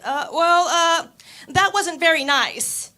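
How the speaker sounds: hammed-up mom scolding, slowing at the end. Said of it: "my mom was like".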